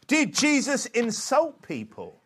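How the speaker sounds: high, slow, emphatic question. Real, not acted. Preacher posing the next sermon question, high and slow. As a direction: call out each word of the question. Question repeated, raised then lowered.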